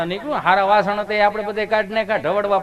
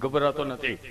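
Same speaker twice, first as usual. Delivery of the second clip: timid reply; 6 semitones lower, 8 dB quieter than usual. Retold or imitated. Timid patient answering nurse.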